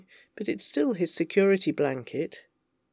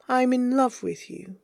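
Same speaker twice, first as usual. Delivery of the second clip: higher, tender declaration of love; earnest confession; 4 semitones higher than usual. Acted. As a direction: say it in one unbroken, heartfelt phrase. Repeats the confession without hedging.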